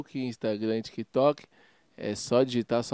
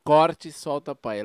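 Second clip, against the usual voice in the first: Corte Solta Pai repeated a bit slower; 3 semitones higher, 3 dB louder, much slower than usual. Shown as a demonstration. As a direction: repeat the channel name slowly. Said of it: "Qual que é o nome".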